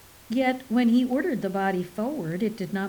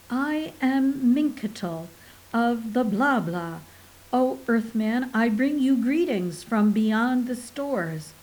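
alien voice. Acted. Second alien introduces itself.

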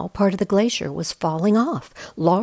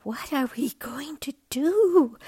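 put-on young whale crying out; 9 semitones higher than usual. A narrator's reading. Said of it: "cried Bella".

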